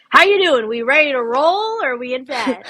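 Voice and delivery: high, loud, peppy trainer voice; chirpy trainer check-in. Retold or imitated. Gym trainer checking on sick client, voiced high and peppy. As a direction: pitch it up like an eager gym trainer.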